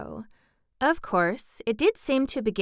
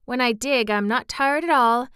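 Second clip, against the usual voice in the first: put-on higher, eager child character; a lightly acted child, pitched up; lightly voiced earnest child; 5 semitones higher, 4 dB louder than usual. Child telling how digging feels, eager.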